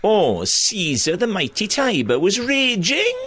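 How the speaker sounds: slow, high, camp Swansea Shakespeare; camp Swansea accent. Retold or imitated. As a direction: ham up Julius Caesar in a camp Swansea accent. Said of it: "all done in a camp Swansea accent".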